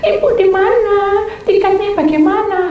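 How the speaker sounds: high, wailing mock-crying questions; imitated tearful panic. Caller who lost her way rings the speaker, imitated tearful panic. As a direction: whine it out as if close to tears. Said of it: "Nangis, nangis".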